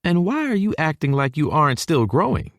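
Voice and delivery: high-pitched motherly retort; high Texan mom, mock-challenging; countering southern mama. A narrator's reading. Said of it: "she counters".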